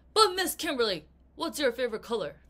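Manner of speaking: loud, fast eager blurt; mock excited student cutting in; eager interruption. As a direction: blurt it out like an impatient kid.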